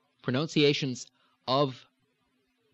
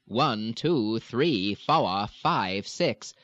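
Down East accent; much slower than usual. Shown as a demonstration. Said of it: "the sort of down eastern New England pattern".

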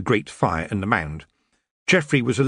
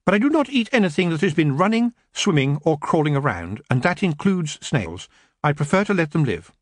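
put-on a touch higher, earnest young man; gentle Geoffrey; 6 semitones higher than usual. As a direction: refuse kindly.

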